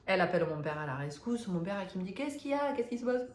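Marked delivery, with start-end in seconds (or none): 2.1-3.2 higher, anxious father asking what's wrong; a father alarmed by his crying daughter; worried father. Retold or imitated. Father worried, asking his crying daughter what happened, higher anxious questions.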